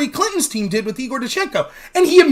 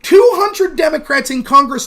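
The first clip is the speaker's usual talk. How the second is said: emphatic shout; 3 semitones higher, 4 dB louder than usual. Real, not acted. Ranting to audience, shout.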